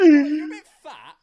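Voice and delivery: loud, slow line through laughter; cracking up while repeating; laughing. Real, not acted.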